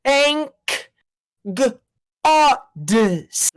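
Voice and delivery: slow, halting robotic Siri voice; choppy Siri voice. Acted. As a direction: break it up like a glitchy Siri voice. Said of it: "the awful, choppy Siri voice".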